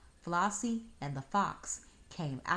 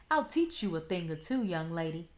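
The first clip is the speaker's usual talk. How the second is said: calling after; 4 dB louder than usual. Acted. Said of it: "Fox called after her".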